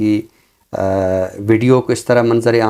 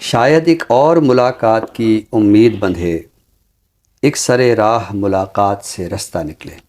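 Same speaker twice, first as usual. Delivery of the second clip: ghazal recitation. Acted. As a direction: savor each line like a mushaira reading. (धीमी, ठहरी हुई ग़ज़ल-ख़्वानी)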